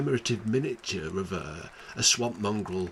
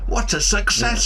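much higher, bright relief; excited; 11 semitones higher, 9 dB louder than usual. Acted. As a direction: burst out in triumph. Sudden relieved joy.

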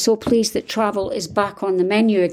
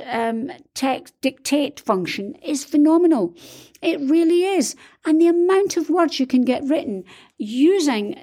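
pitched up, delighted gushing; excited; 5 semitones higher than usual. Real, not acted. Author raving to viewers about dictation software, excited. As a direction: rave about a tool that finally works.

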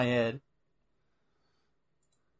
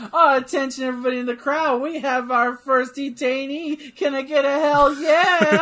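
higher, louder intercom announcer voice; flat echoey PA page; 8 semitones higher, 6 dB louder than usual. Retold or imitated. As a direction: announce it like a stadium PA. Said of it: "sound like an intercom system".

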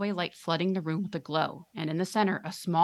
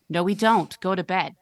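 firm loud refusal; 7 dB louder than usual. Acted. Parent snapping back.

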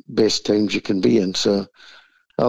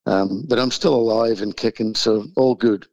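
hoarse from the flu; croaky, flu-roughened voice. Real, not acted. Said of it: "I apologise for my croaky voice".

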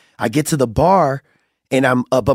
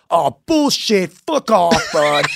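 higher-pitched mock disbelief; exasperated dismissal, played for laughs; retold scornful dismissal; 4 semitones higher, slower than usual. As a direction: imitate a scornful brush-off. Woman disbelieves his blindness, retold.

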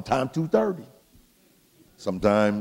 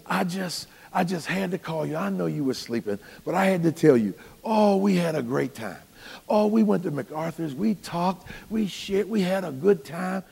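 gushing wife; 6 semitones higher than usual. Retold or imitated. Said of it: "and she says".

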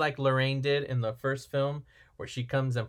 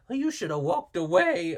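lightly attempted Irish accent, pitched up; Seamus; 4 semitones higher than usual. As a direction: have a clumsy go at Irish. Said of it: "I can't do an Irish voice".

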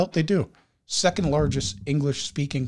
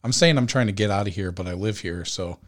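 out of breath; 2 semitones lower, faster than usual. Real, not acted. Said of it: "I'm running out of breath".

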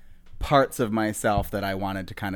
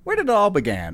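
higher, playful mock re-ask; high mock repeat; 9 semitones higher, 3 dB louder than usual. Shown as a demonstration. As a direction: say it again, high and hammy.

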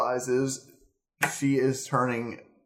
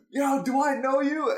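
much higher, hammed-up squeaky voice; mock Nadia; 13 semitones higher than usual. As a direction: squeak out the question in a cartoonish voice. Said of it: "And then she goes".

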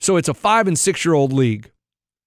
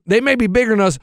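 building pep cheer; 5 semitones higher than usual. Retold or imitated. A coach counting off the team chant for his kids, building to a shout. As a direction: build the huddle to a big soccer cheer.

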